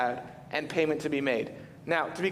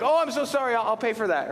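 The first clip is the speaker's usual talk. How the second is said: polite apology; 6 semitones higher, faster than usual. Retold or imitated. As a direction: play the flustered guest who broke the lamp. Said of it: "the, like, American thing and be like".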